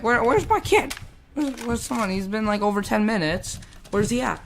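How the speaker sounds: mock puzzled questioning; puzzled teacher. Teacher wondering where her kid is.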